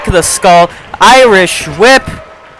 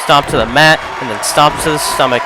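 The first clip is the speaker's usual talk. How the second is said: losing voice, hoarse calls; strained, fading voice; 5 semitones lower, 7 dB quieter than usual. Real, not acted. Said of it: "I'm losing my voice here tonight".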